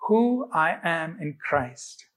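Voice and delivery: slow, measured recital for others to join; deliberate group declaration with spaced-out words; leading an affirmation. Shown as a demonstration. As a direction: say it slowly, phrase by phrase. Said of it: "let's say this together".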